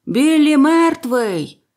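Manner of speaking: high, loud, drawn-out yell; bellowed announcement. A narrator's reading. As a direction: bellow the news from inside the inn. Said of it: "хтось прогорланив зсередини корчми". (протяжний гучний вигук)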